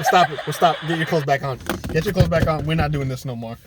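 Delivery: loud pretend scolding; mock stern. Man telling the woman to dress, loud mock stern. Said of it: "I'm like".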